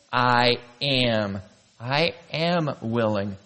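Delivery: slow, weighty statement; solemn declaration. Acted. The great I am speaking, solemn. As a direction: declare it deliberately, word by word. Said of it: "The great I am is saying".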